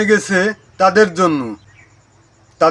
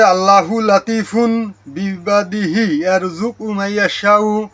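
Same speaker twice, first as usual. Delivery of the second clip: quranic recitation. Shown as a demonstration. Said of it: "আয়াতটি হচ্ছে".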